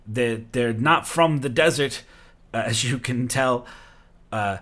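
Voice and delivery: bow and report to your lord with eager deference; dutiful servant Eric. Acted. Eric presenting the rescuers to his boss, eager and deferential.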